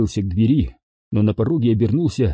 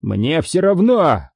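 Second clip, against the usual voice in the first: higher, drawn-out yell at moderate volume; angry yell; 6 semitones higher, slower than usual. A narrator's reading. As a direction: yell it slowly, with narrator's restraint. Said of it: "заорал Харрисон". (сердитый протяжный выкрик)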